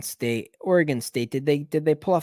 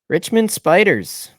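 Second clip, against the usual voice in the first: drawn-out announcer call; 6 semitones higher, 6 dB louder, slower than usual. Acted. Announcing a team pick.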